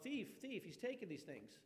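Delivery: high-pitched imitation of calling out a thief; mock alarm yell. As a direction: raise the alarm in a high mock yell, without much volume. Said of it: "Nobody yelled out".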